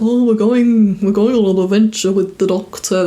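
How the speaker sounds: put-on terrible Scouse accent. Beatle excited about the Doctor, in a bad Scouse accent. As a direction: put on a clumsy Liverpool Scouse voice. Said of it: "that's a terrible Scouse accent".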